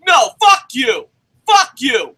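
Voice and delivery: forceful, shouted dismissal; angry outburst. Real, not acted. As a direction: throw it at them furiously. Angry rant at wrestling trainees.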